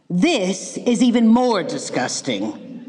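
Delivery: slow, stretched disgust in a put-on girl voice; drawn-out disgust. Goldilocks to herself, tasting rotten rabbit, slow disgust. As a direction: savour each word of the disgust slowly.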